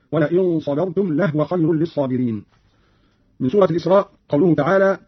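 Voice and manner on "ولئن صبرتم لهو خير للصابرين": "لهو" said "lahwa", no vowel on the ha; vowelless ha. Shown as a demonstration. Teacher gives another Qalun example, "لهو" as "lahwa". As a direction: close the ha of "لهو" straight into wa. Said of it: "وكذا قوله تعالى".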